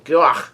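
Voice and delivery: brief mock "gah" of pain; imitated pain yell. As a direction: imitate pirates crying out, mildly. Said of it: "the pirates yell in pain".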